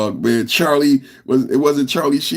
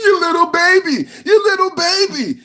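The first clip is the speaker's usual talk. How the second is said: mocking; 13 semitones higher than usual. Real, not acted. Mocking scolding a crybaby.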